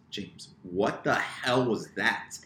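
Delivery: slow, drawn-out what the hell was that; incredulous sisters. Retold or imitated. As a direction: drag it out in disbelief. Sisters confront her after fail.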